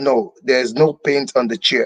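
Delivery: normal talking voice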